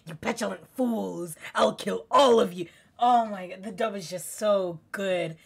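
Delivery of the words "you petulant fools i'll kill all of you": Dio. Retold or imitated. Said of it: "Dio's funny in the dub too".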